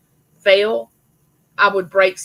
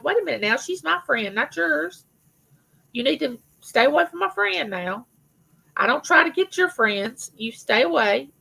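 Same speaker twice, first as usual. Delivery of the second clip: mock jealous; 5 semitones higher than usual. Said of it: "No, I'm joking".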